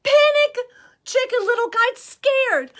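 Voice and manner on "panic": sudden high panicked cry of Panic. Acted. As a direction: cry out in alarm. Story character panics.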